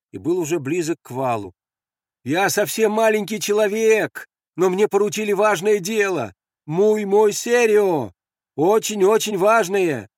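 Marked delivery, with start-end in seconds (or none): 2.2-10.1 high, loud appeal, slowing for emphasis; insistent calling out. Acted. Little man with an important mission, urgent plea. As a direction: press the importance on them, drawn out.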